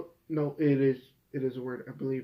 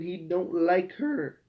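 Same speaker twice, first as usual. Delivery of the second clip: voice cracking; 4 semitones higher, slower than usual. Real, not acted. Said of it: "My voice just cracked".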